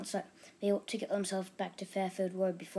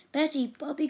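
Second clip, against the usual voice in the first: loud, high calling of names; called out; 7 semitones higher, 6 dB louder than usual. A narrator's reading. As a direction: call to the children across the dark. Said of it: "called Missus Bold".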